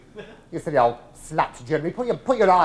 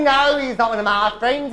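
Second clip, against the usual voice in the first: indignant denial; 6 semitones higher than usual. Retold or imitated. Excited denial, high.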